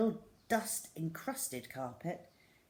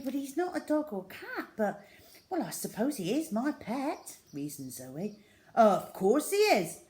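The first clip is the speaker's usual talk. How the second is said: put-on excited young girl; 4 semitones higher, 7 dB louder than usual. Tina excitedly tells school gossip.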